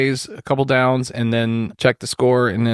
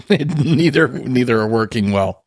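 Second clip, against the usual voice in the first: laughing; 3 semitones higher than usual. Real, not acted. Laughing at own joke.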